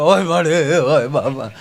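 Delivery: lightly acted comic sobbing wail; low, falling fake lament; mock wailing. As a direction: imitate a groom bawling. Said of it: "તમારો ભૂરો મળ્યો રડવા".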